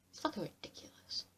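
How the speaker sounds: soft whispered swearing; whispered exasperation at the show; whispered curse. Real, not acted. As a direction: mutter it under your breath, fed up. Exasperated aside.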